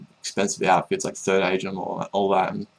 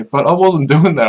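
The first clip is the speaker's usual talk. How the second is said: laughing; 7 semitones higher, 8 dB louder than usual. Real, not acted.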